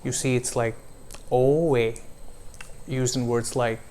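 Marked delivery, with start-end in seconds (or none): 1.3-1.9 oe gliding into an i sound; diphthong demo. Shown as a demonstration. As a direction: glide clearly through oe. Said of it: "Another one is oe".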